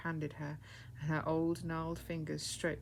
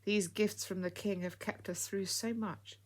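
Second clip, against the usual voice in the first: grateful; 3 semitones higher than usual. Acted. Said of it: "she said with great gratitude".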